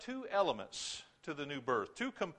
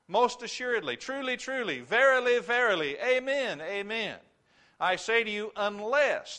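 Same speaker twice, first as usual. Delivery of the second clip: higher and louder, stacking each word; emphatic oath; 5 semitones higher, 5 dB louder than usual. Acted. Preacher voicing Jesus to his hearers, loud and emphatic. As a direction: proclaim it with mounting force.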